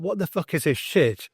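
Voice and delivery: outraged disbelief. Retold or imitated. Patient thinking about the therapist's colour question, outraged. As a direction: let disbelief tip into annoyance.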